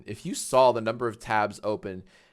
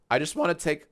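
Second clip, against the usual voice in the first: voice crack; 2 semitones higher, faster than usual. Real, not acted. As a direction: voice cracking mid-phrase. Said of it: "voice crack".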